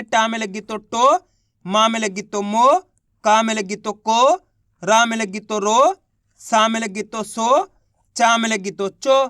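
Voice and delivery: slow drill, final टो, मो, को drawn out with a rise; syllable drill. Shown as a demonstration. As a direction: stretch the ओ ending of each syllable like a teacher. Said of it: "इसको भी ओ करके पढ़ेंगे". (धीरे-धीरे, आख़िरी ओ को खींचकर)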